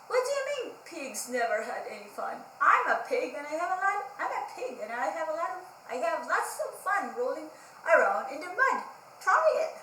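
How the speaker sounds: lightly voiced cheerful pig, quick and inviting; new pig voice. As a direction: invite the sad pig to roll in the mud. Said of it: "a voice beside him called out".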